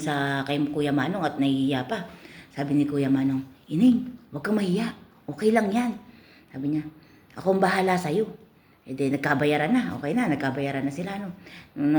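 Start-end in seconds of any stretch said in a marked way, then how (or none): 3.7-8.3 reassuring customer. Acted. Customer reassures shy girl.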